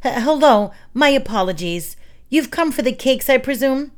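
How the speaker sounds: frightened baker flustered at the door; nervous stammer. Acted.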